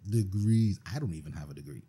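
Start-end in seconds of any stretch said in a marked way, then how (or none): 0.1-0.8 "Degrees" said much louder and higher; stress on Degrees. Real, not acted. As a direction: punch "Degrees" hard and loud. Emphatic repeat of degrees.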